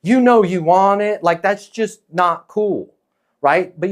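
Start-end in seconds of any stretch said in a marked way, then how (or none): 0.0-1.2 high, drawn-out mock coaxing; louder, higher hammed-up cajoling; pushy pressure. Shown as a demonstration. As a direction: wheedle them, stretching out the plea. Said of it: "putting pressure on them going".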